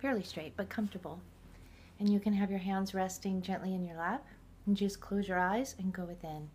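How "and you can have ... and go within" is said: calm guided meditation voice. Real, not acted. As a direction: guide the listener inward, unhurried.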